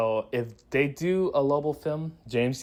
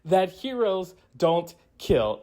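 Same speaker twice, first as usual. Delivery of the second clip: much higher and slow, openly disbelieving; mock outrage pitched way up; incredulous; 6 semitones higher, slower than usual. Reviewer mocking Kara breaking her no-kill rule, incredulous. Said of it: "I'm like".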